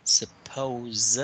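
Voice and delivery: suppose, slow and clear with a buzzing z; teacher models suppose for the student; careful model word. Shown as a demonstration. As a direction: say suppose spelling out the z ending. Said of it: "need to pay attention with this part".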